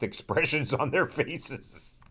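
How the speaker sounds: trying not to laugh; giggling through the words; stifled giggles. Real, not acted. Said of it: "I'm trying not to laugh at".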